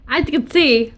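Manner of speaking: numb mouth after a filling; half the mouth numb, words a bit slurred; numb from the dentist. Real, not acted. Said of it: "I'm numb right now".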